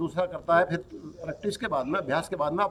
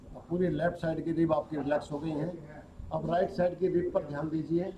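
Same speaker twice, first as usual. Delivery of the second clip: yoga nidra instructor's voice, softer than explaining; guided relaxation; 7 dB quieter than usual. Acted. Teacher leads students through yoga nidra, guided relaxation. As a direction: guide the body into rest, with long pauses.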